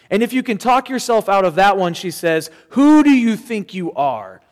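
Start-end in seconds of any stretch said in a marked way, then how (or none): 2.7-4.4 mocking voice of shame. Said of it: "the second voice that shame offers up".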